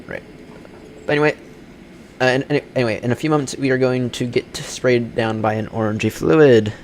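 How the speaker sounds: airline captain cabin announcement; polite captain on the PA; over a pilot headset. Acted.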